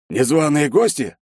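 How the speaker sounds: wary Shchedrin. A narrator's reading. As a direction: eye the door warily.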